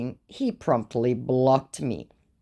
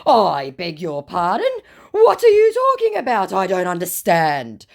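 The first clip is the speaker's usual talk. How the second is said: high, loud fake confusion; hammed-up scammer; mock scammer voice; 5 semitones higher, 6 dB louder than usual. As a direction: play dumb in a squeaky voice. Voicing the scammer's reply.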